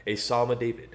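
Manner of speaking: solemn, measured King James reading; scripture reading. Acted. Streamer reads Psalm eight to chat between races, solemn scripture voice. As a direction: read it like a preacher at the pulpit.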